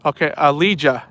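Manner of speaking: Alija said with an English J, like a-LEE-juh; English pronunciation. Shown as a demonstration. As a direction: Alija with a hard J sound. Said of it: "saying it in English".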